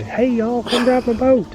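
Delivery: high, hammed-up redneck drawl; redneck accent. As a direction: play the hillbilly inviting folks over in a redneck accent. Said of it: "Should I do the redneck accent".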